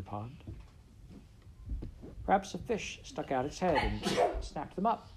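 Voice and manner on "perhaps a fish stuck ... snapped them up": put-on light higher child voice; a hint of a small girl; lightly voiced little girl. A narrator's reading. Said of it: "said Sally".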